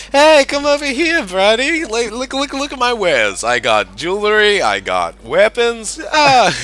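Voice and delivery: high, loud put-on street-hawker accent, slowing on the last wares; merchant accent. Street merchant calling an adventurer over to his stall, in a high put-on accent. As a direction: hawk your wares in a silly high accent. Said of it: "I lost the accent".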